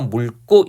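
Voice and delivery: 물고 said as mul-kko; exceptional pronunciation demo. Shown as a demonstration. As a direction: hold the l in 물고, then tense kk. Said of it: "리을로 발음해서".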